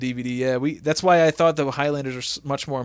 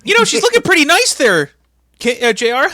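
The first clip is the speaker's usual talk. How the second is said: much higher, louder sleazy put-on voice; leering commentator voice; 12 semitones higher, 7 dB louder than usual. Commentator leering at Hulk Hogan's daughter on air, hammed-up. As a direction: ham up a creepy announcer.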